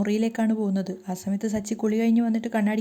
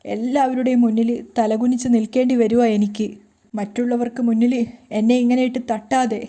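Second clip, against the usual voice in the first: crying plea; 4 dB louder than usual. Acted. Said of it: "കരഞ്ഞുകൊണ്ട് തന്നെ രേവതി പറയാണ്".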